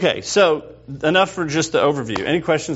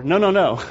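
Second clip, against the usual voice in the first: "No, no, no" repeated insistently, higher; emphatic repetition; 4 semitones higher than usual. Shown as a demonstration. Teacher showing repetition for emphasis after a miscount, emphatic repeated no. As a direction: repeat "no" emphatically, raised in pitch. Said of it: "Repetition is for emphasis".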